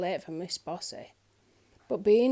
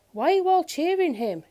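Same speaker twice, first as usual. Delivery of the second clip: indignant question; 8 semitones higher, 8 dB louder than usual. A narrator's reading. Puzzled Trouble protests.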